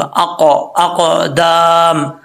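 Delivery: "अक़" with a heavy q that bounces on release; slow "अक़दाम", echoing the q and holding the aa; "अक़, अक़दाम" drawn out with a bounced, full q; full qalqala. Shown as a demonstration. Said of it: "पुर भी पढ़ेंगे और यहाँ कलकला भी होगा".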